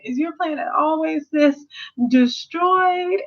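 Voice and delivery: a queen sneering at a messy place; White Diamond's disdain. Retold or imitated. White Diamond asking Steven about Earth in a high, haughty put-on voice. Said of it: "White Diamond".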